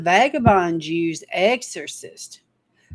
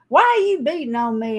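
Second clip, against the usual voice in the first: talking donkey; 5 semitones higher than usual. Acted. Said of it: "the donkey turns around and says".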